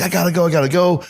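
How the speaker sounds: hurried traveller snapping at the security guard; impatient, getting mad. Retold or imitated. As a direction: repeat I gotta go urgently, rising each time. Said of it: "And I started getting mad".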